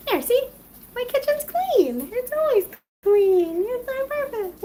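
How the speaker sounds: high, sing-song bragging about a spotless kitchen; playful showing off the kitchen to viewers; mock proud. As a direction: oversell how clean it is, tongue in cheek.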